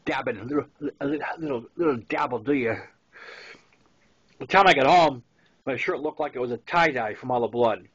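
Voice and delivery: usual speaking voice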